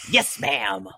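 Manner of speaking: high-pitched dutiful reply; mock obedient child. Child answering scolding mother, mock obedient. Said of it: "my mother would say".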